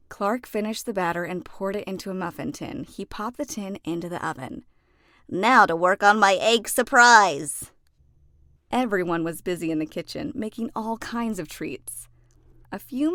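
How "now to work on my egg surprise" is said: louder, cheerful eager announcement; excited cook starting a new dish; eager character voice. Acted. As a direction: rub your hands and dive in.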